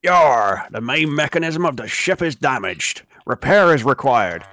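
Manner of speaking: gruff sailor voice, slow at the end; pirate voice. Acted. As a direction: growl it like an old pirate captain. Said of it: "I got my pirate voice going".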